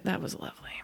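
soft whispered appreciation; hushed. Real, not acted. Co-host savoring a touching storyline, hushed.

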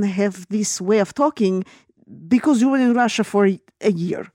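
hammed-up Russian-accented English; mock Russian accent; joke Russian accent. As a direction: put on a bad Russian accent for laughs. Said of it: "I was doing it to be funny".

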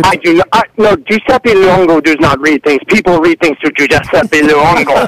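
angry mock Italian mogul; bossy prank-call villain voice; Giuseppe Luongo. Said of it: "It's the evil Giuseppe".

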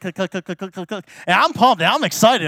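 ordinary talk, nothing marked

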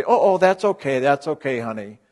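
hammed-up coddling of someone in pain; teacher mocking people who rush to comfort; mock soothing. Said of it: "not trying to say".

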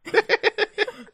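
squealing giggle; high-pitched laugh. Real, not acted. High laugh after the joke.

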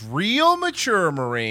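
slow, stretched "Real mature, Marie" with a dry sarcastic fall; drawn-out sarcasm. Shown as a demonstration. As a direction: drag out "Real" slowly, dripping with sarcasm. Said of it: "He goes".

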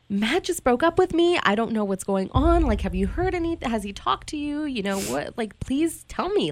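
high, upset and pleading; tearful pleading. Retold or imitated. Calling his mom, pleading through tears. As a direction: beg for answers through tears. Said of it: "I'm, like, bawling at this point".

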